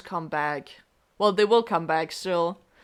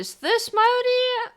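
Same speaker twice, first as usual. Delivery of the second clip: puzzled; slower than usual. Real, not acted. Guessing who knocked.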